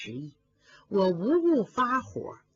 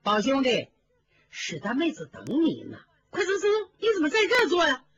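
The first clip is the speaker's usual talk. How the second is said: put-on quick, higher young lady's urging; a higher, rapid cousin calling Baoyu away; Baochai's voice; 4 semitones higher, faster than usual. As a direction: hurry him off brightly and fast. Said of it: "薛宝钗走了进来".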